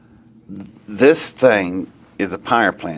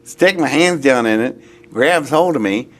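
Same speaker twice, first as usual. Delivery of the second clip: higher-pitched, mildly panicked self-reproach; retold inner dread, pitched up; exasperated alarm; 6 semitones higher than usual. Man recalling his thoughts inside an alien vehicle, mildly alarmed.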